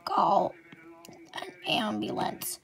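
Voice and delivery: a crying word, then fading to a whisper; injured, whispering for help; weak pained plea. Acted. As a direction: gasp it out, hurt and faint. Injured girl gasps for help.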